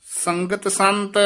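ਸੰਗਤ ਸੰਤ, then a long pause; pause after phrase. Shown as a demonstration. Teacher marking the pause in the hymn: long stop after ਸੰਗਤ ਸੰਤ. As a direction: hold the silence after ਸੰਤ. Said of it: "ਸੰਗਤ ਸੰਤ ਇੱਥੇ ਵਿਸਰਾਮ ਲਾ ਦੇਣਾ".

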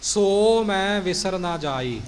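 slow, small break between ਸੋ and ਮੈਂ; don't run ਸੋ ਮੈਂ together; careful separated words; separate ਸੋ and ਮੈਂ. Shown as a demonstration. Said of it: "ਸੋ ਮੈਂ ਇਕੱਠਾ ਨਹੀਂ ਕਹਿਣਾ".

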